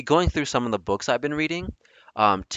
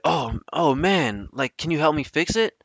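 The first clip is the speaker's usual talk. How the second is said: feigned distress, pitched up; playing along; 6 semitones higher than usual. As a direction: plead as if falling for it. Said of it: "I'm entertaining this".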